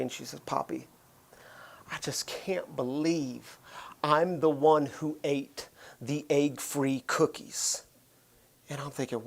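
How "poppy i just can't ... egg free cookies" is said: soft, slow, near-silent confession; retold tearful whisper. Daughter confessing to her dad at bedtime, whispered. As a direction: whisper it like a guilty little girl.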